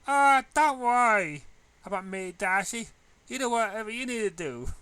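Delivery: put-on high, slowed, sing-song cheerful girl; bubbly Pinkie voice. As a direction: play the bubbly friend gently reassuring. Bubbly friend Pinkie reassures.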